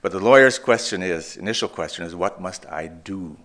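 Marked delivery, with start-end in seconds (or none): 2.1-3.4 "do" drawn out at the end; slow down onto the word "do"; stress on DO. Shown as a demonstration. Preacher quoting the lawyer's question, stress on "do". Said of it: "all the emphasis on the word do".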